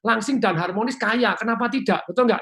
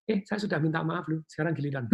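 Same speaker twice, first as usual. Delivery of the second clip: calm reminder; 6 dB quieter than usual. Shown as a demonstration. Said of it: "dengan nada yang tepat".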